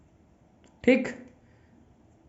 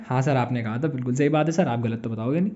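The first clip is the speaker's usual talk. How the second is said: agreeing students; 5 semitones lower, 6 dB quieter, faster than usual. Acted. Voices students dutifully agreeing with him.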